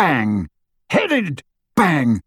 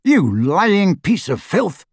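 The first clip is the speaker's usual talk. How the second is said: high, slow furious insult; angry shout; 6 semitones higher, slower than usual. A narrator's reading. Selwyn accusing his prisoner of lying, angry shout. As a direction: spit out the insult, pitched up. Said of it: "shouted the wizard named Selwyn".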